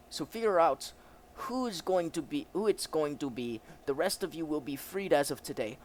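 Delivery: commanding officer with a put-on German accent; German officer character. German officer explains the prisoner's state, acted officer voice.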